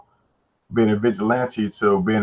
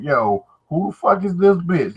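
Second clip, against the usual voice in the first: high-pitched indignant outburst, mimicked; angry baby mama; 8 semitones higher than usual. Acting out her coming out of the closet mad, angry baby mama. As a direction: imitate a jealous, mad woman demanding answers. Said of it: "like an angry baby mama".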